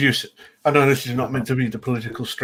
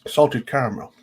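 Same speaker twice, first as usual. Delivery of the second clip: mouth full. Real, not acted. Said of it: "Sorry, I'm just eating ice cream".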